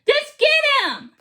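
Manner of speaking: insist, hurry him; sharp urgent order. A narrator's reading. Urgent command in story.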